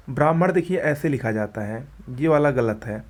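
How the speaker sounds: ordinary delivery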